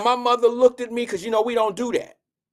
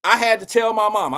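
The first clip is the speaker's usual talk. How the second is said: mock indignant mom; 5 dB louder than usual. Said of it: "And she said".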